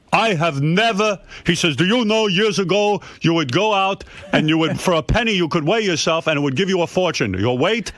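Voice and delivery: lightly voiced indignant father; imitating angry father. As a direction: play the dad, high and fussy. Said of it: "he got angry".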